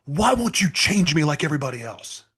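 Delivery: high, loud, slowed anguished cry; screaming at God. Retold or imitated. Prisoner screaming at God in his cell, loud and high. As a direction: hurl the question up at God. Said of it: "I start screaming at God".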